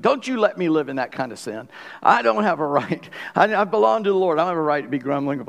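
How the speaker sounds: mildly indignant fussing, imitating an upset friend. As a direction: act out a friend fussing at you. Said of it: "he was just fussing".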